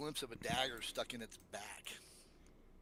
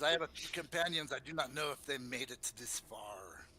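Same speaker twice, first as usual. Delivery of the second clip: put-on lightly accented, courtly drow; suave drow; 4 dB louder than usual. Drow tells newcomers of his companions, lightly accented and suave.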